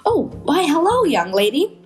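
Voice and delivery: a just-woken bus driver; sleepy bus driver. Acted. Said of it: "driver that's practically sleeping".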